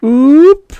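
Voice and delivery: long, very high loud hoot; drawn-out creature call; alien cry. A narrator's reading. Natives clamour together for soup, insistent. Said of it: "Several voices took up the cry".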